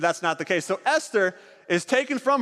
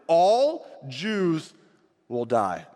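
grim decree repeated; much slower than usual. A narrator's reading.

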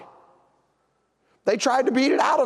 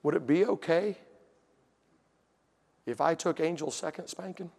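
softly voiced small request, low and halting; little daughter pleading; 3 semitones lower, 6 dB quieter than usual. Four-year-old asking Daddy to take sister's spanking, soft pleading. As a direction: ask it meekly, with pauses between phrases. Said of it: "my little four-year-old daughter looked at me".

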